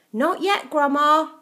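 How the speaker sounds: calling back. A narrator's reading. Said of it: "George called back".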